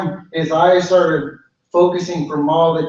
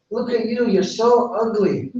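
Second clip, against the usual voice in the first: haughty; 6 semitones higher than usual. Acted. Dogwood mocks the bird.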